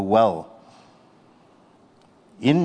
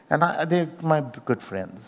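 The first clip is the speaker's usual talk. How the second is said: laughing lightly; 6 semitones higher than usual. Real, not acted. Laughing off friends who left.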